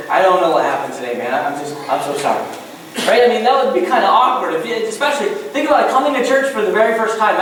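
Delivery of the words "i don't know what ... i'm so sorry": lower-pitched, fumbling apology; embarrassed apology. Acted. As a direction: apologize awkwardly to the friend you invited. Acted apology to the invited neighbour.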